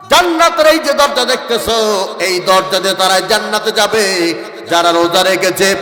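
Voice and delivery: forceful, repetitive sermon cadence; preaching. Acted. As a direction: declaim each promise firmly, line by line. (জোরালো ওয়াজের ভঙ্গি)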